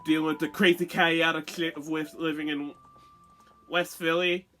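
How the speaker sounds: speaking with a slight lisp. Real, not acted. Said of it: "Excuse my lisp".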